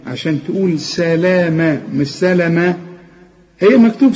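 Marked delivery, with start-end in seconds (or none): 0.8-2.8 سلامة with the long ا held, not سلمة; long vowel shown. Shown as a demonstration. Teacher to student: long ا versus short سلمة. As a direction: stretch the ا in سلامة. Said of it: "سلامة دي ألف".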